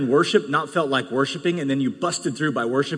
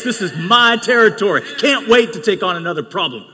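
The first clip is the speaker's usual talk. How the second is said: rising, louder faith-filled boast; bold declaration; 4 semitones higher, 3 dB louder than usual. Pretend. Preacher voicing a believer claiming territory, bold and loud. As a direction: declare it like you own the ground.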